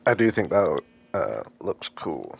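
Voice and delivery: talking through a mouthful of food; words round a bite of snack; mouth full. Real, not acted. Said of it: "my mouth is full".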